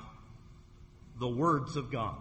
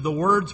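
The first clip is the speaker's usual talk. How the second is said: "words" punched louder with a clear plural s; stress on words; 6 dB louder than usual. Shown as a demonstration. Preacher reading scripture, punching the plural "words".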